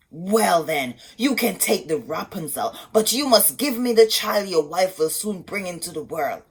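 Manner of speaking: witch's bargain. Acted. Sorceress demanding the child from husband, stern. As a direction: lay down the cruel deal. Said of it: "she told him".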